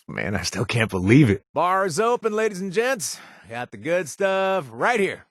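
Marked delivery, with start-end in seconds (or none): 1.5-5.2 high, showy bartender's call to the room; barkeep calling out. Acted. Owner welcoming imagined patrons, high showy barkeep call. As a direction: announce the bar like a proud barkeep.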